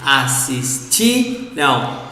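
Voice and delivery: slow, low "assistiram", weight on "ti"; measured model of "assistiram", stressed "ti"; stress on penultimate syllable. Shown as a demonstration. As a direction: lean on "ti" in "assistiram", then let "ram" fall. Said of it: "stress on the penultimate syllable".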